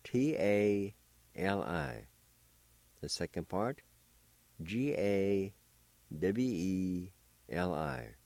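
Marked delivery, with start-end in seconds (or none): 0.0-2.1 letters named one at a time; spelled out letter by letter. Shown as a demonstration. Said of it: "First part is spelled like this". 4.6-8.2 letters named one at a time; spelled out letter by letter. Shown as a demonstration. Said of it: "spelled like this".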